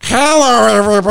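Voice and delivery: high squeaky helium voice; like he just breathed helium. Retold or imitated. Simpsons helium voice bit.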